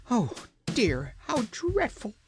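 high wailing lament. A narrator's reading. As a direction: wail it like a tragedy. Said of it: "said Pessim in a wailing voice".

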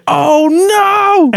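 dismayed. Retold or imitated. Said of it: "I was like".

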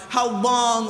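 a loud, lifted cry of how long; the prophet's cry ringing out. Acted. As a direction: call it out to God. Prophet crying out.

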